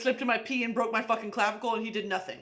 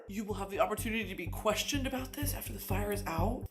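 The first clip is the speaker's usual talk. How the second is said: brisk, even computer delivery; spaceship AI; 2 semitones higher than usual. Acted. Ship AI answers a confession, brisk AI voice. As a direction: rattle it off impassively as the ship's computer.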